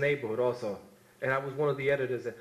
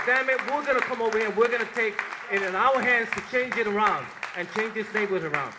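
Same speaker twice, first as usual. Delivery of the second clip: loud and fast, pitch way up; fired-up retold shout; 5 semitones higher, 5 dB louder than usual. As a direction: shout it like you're rallying the block. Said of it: "We said".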